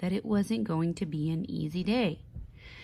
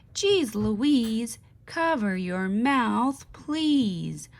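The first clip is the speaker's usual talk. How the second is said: not-so-good-morning voice; 3 semitones higher, 4 dB louder, slower than usual. Acted. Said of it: "in a not-so-good-morning voice".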